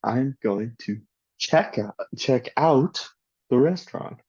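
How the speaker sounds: "check out" as two words, stress on "out"; second-word stress. Shown as a demonstration. Teacher gives non-compound example, stress on "out" in "check out". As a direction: correct yourself and lean on "out" in "check out". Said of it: "stress the second word".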